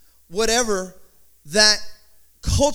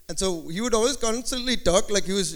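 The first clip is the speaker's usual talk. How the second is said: lightly imitated Indian accent; a hint of Indian accent; 3 semitones lower, 4 dB quieter than usual. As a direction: slip into a mock Indian accent while telling it. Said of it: "'cause his parents were from India".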